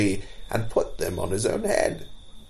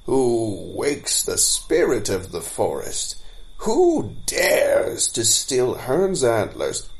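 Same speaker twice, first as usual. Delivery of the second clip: booming voice; slower than usual. Acted. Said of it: "cried out in a great booming voice".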